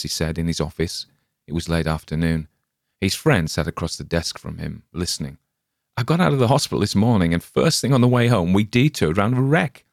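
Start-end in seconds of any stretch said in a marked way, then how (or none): 6.0-9.8 quick, higher, lively telling; eager rush. Acted. Spalner rushing his story to his friend, eager and quick. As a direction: tumble the news out fast.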